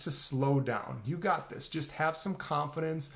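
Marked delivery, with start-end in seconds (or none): 0.1-1.0 slow, deliberate advice. Shown as a demonstration. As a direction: stretch the words out slowly to model it. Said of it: "So that would be the first thing". (say it slowly and calmly)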